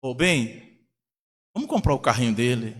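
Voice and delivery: lightly acted low, tender appeal; coaxing mother. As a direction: imitate a wife gently persuading her husband. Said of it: "Aí a mãe fala".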